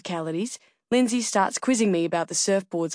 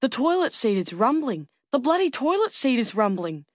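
excited; 5 semitones higher than usual. Acted. Breathless excited man reports rumbling.

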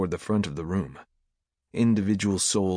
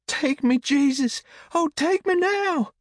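very high, loud ecstatic cry; frenzied worshipper; 5 dB louder than usual. A narrator's reading. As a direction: cry out in religious frenzy, far up in pitch. Worshipper cries out in religious frenzy.

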